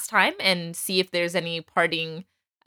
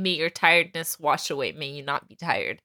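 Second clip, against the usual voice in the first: soft, quiet blessing; soft, fading courtesy; gentle blessing; 4 semitones lower, 3 dB quieter than usual. Shown as a demonstration. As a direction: offer it like a kind wish. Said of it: "it's just a way of saying".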